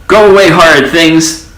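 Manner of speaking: high furious shout. A narrator's reading. Grumpy old mouse shouting at children. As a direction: snap it at the children, loud and cross. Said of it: "he would shout".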